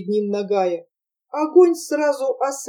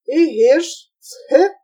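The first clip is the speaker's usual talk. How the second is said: Circassian exclaim; 4 semitones higher, 4 dB louder than usual. Acted.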